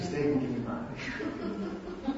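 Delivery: slow, careful steak and kidney pie; careful pronunciation. Shown as a demonstration. Preacher getting the dish name right for the congregation, slow and careful. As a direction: sound out "Steak and kidney pie" slowly, word by word. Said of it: "I'm gonna have to say this right".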